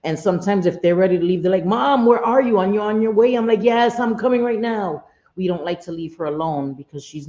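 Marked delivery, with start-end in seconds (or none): 1.6-3.3 put-on impatient kids' call, higher and louder; lightly voiced sons. Voices sons calling her impatiently. 3.6-5.0 mock harried reply, raised voice; retold hurried reassurance. Retells hurried answer to sons.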